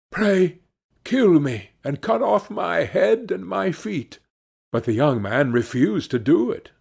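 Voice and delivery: the fox pleads, then warns, lightly voiced. Fox pleads, then gives counsel.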